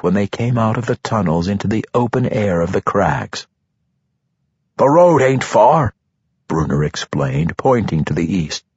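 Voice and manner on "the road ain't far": gruff dwarf, a bit louder; lightly voiced dwarf. A narrator's reading. Dwarf Bruner's voice.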